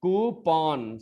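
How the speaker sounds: "कूपन" as koo-PON, two long syllables; updated pronunciation. Shown as a demonstration. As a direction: say "कूपन" with an open -pawn ending. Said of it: "क्या बोलेंगे?".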